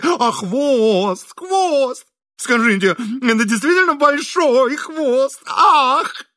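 high, gushing, slow fawning questions. A narrator's reading. Host fawning over guest's cat, high and gushing. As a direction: fawn over the cat with squeals. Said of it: "заискивающе спрашивал".

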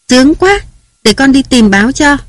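put-on little girl volunteering eagerly to fetch the paper; delighted child. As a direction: bounce up high like a kid who just got her wish. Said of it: "thích chí".

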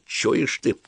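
loud, high barked command to a soldier; officer shouting orders down the line; shouted order. A narrator's reading. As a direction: call the soldier over and give the order.

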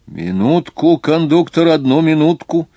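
high, loud plea to wait; calling out. A narrator's reading. Architect asks conductor to wait, calling out. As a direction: call for a moment's delay. Passenger calls to hurrying conductor.

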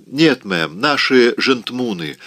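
panting cry; breathless. Acted. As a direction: gasp it out, short of breath. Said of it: "задыхаясь, выкрикнула Присси".

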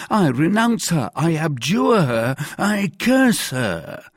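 high, emphatic protest of innocence; desperate mercer. A narrator's reading. Mercer disowning his wife to the commissary, desperate.

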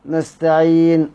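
نستعين ending with lips rounded after the final n; ishmam. Shown as a demonstration. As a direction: close on نستعين then round the lips silently. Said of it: "وتضم الشفتين". (نستعين بالإشمام)

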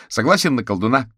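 high, loud, eager agreement; exclaiming. A narrator's reading. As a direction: jump in keenly, pitch up. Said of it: "воскликнул Кузя".

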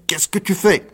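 put-on frightened old woman. A narrator's reading. Old woman choked by Rocambole cries out in panic. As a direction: shriek the question in fear.

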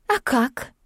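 издевательски. Acted. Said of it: "Юлька откровенно издевалась".

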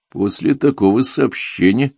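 plain reading voice

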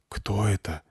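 soft, hushed asking; quiet question. A narrator's reading. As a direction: ask under your breath. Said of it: "спросил тихо Артём".

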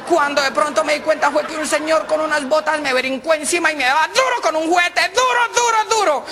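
put-on high, whiny old lady voice; a suegra telling her son-in-law, high and plaintive; mother-in-law. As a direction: wail it like a battered suegra.

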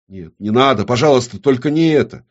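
pleading. A narrator's reading. Woman begging the demon to spare him, pleading. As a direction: beg him not to do it.

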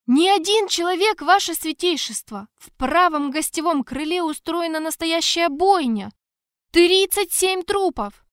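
high, loud, panicked blurt; frantic guard reporting a murder. Acted. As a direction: gasp out the news wild-eyed.

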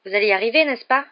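high, loud anxious question; pleading, pitch climbing at the end; desperate. A narrator's reading. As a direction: beg to be reassured. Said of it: "demanda Harry désespéré".

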